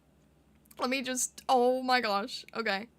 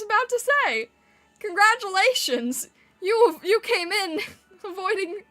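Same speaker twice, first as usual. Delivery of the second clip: squeaky excited; 7 semitones higher, 5 dB louder than usual. Real, not acted. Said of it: "when you yell or laugh, you squeak".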